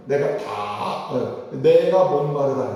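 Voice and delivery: slow, low, drawn-out "내가 목마르다" like a dying man; a parched, fading voice; weary cry from the cross. Acted. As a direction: let it sag with thirst.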